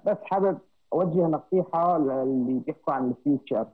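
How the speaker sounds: faint, distant caller; talking away from the microphone; far from mic. Real, not acted. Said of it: "صوتك كتير بعيد عن الميكروفون".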